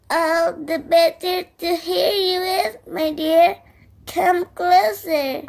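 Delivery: put-on wolf luring the girl nearer; lightly voiced wolf granny. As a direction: coax her closer. Wolf answering as grandmother.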